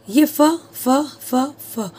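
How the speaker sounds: फ repeated as a short f sound. Shown as a demonstration. Teacher drilling the f sound for students. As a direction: tap out फ several times. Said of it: "पर sound क्या निकल रहा है".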